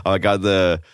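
hungover. Real, not acted. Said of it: "I'm so hungover".

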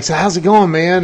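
imitating a hyped friend's greeting. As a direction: greet him like an energetic friend. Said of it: "energetic and hyped up".

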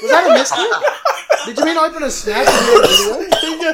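high, loud, slow teasing through laughter; laughing tease. Real, not acted. Teasing a friend about a miss click, laughing. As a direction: rib him while laughing.

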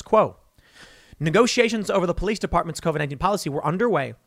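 rattling off a news quote quickly; fast article read. Shown as a demonstration. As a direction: speed through the article text. Reads news article aloud.

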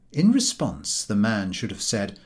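ordinary delivery

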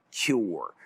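"cure" set apart and drawn out with emphasis; stress on cure. Real, not acted. Investor underlining that drugs find cures, emphasis on "cure". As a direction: lean on the word "cure", stretching it. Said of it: "I want to emphasize the word".

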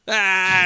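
loud, high "ah" mimicking laughter; mock laughing howl; imitated laughing outburst. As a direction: burst out like a friend cracking up. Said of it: "and he starts laughing".

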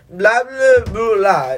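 put-on loud slurred drunken babble; drunk gibberish. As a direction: mumble nonsense like a drunk friend. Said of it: "he just not speaking English".

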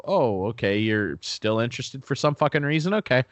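sarcastic pretend answer. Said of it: "No, I don't say that".

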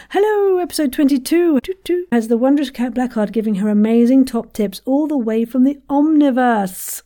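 high, bright-paced podcast opener, pitched well up; a proper restart in full presenter mode; show host intro. Shown as a demonstration. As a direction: launch the episode like a cheery host. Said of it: "Imagine I haven't started doing it".

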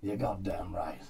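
breathy whispered agreement. Real, not acted. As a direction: whisper it conspiratorially.

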